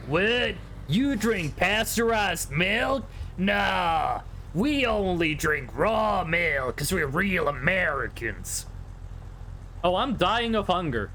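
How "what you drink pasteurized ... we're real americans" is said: slow, lightly voiced smug American; mocking raw milk Americans. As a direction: mimic a slightly smug raw-milk guy. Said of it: "people on Twitter that are like".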